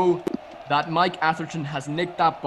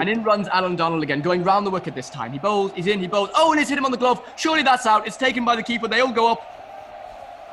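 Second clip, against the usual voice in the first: much higher and louder Irish call building to a wicket; excited Irish commentary; 7 semitones higher, 5 dB louder than usual. Pretend. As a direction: whip it up in an Irish lilt as the catch goes up. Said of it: "I'll be Owen Morgan".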